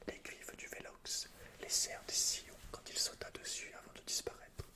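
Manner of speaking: normal talking voice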